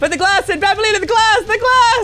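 high, frantic instruction; urgent panic. Pretend. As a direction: plead for action, pitch climbing. Urgent instruction amid chaos.

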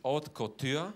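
"Haute Couture" gedehnt, Betonung auf Cot. Shown as a demonstration. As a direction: sprich "Haute Couture" langsam, mit Gewicht auf Cot. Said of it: "Betonung auf Cot". ("Haute Couture" mit Betonung auf Cot)

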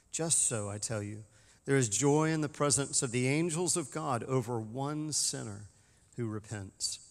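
formal, measured gospel reading from the pulpit; solemn lectern reading; scripture reading. Acted. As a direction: read it as liturgy, each clause weighed.

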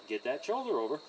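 soft, unexcited instruction; calm, unexcited command. Shown as a demonstration. Trainer moving a horse's shoulder over, calmly. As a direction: give the order without getting worked up. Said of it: "I'm not getting excited".

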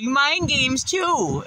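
high, laughing taunt; laughing in her face. Retold or imitated. Laughing the boss's mind games off to her face. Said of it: "I laughed in her face and was like".

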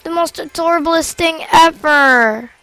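high-pitched cooing over something cute; adoring gushing. Real, not acted. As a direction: squee over an adorable pet, voice up high. Cooing over cute dancing pet.

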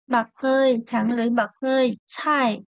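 chai said with a strong puff of air on the ch; tongue flat, push a burst of breath on chai; aspirated demo. Shown as a demonstration. Teacher showing the class the aspirated ch in chai. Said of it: "chữ C đọc như thế nào".

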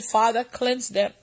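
soft, low retold prayer; hushed and unhurried, addressing God; inward prayer retold. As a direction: pray it gently, as if in your heart. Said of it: "I just told God in my heart".

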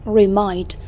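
"remind" as a word-stress example, re-MIND; second-syllable stress. Shown as a demonstration. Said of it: "âm thứ. Hai".

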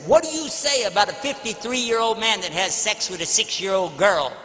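imitating an in-your-face challenger; confrontational. Old man confronting the speaker after a speech, confrontational. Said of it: "he came in my face".

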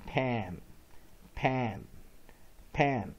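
"pan" with a short A as in cat. Shown as a demonstration. Teacher repeating the first-syllable drill, short-A "pan". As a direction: model "pan" as one separate, clear syllable with short A. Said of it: "short vowel A".

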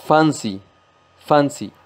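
fancy with the weight on fan; stress on first syllable. Shown as a demonstration. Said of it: "fuerza o acentuación sobre la primera sílaba". (acento en fan de fancy)

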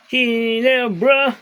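very high, slow, stretched team cheer; drawn-out cheer. Pretend. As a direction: sing out the name long to the cat. Voicing cheer to cat. (mahabang mataas na sigaw ng Ginebra)

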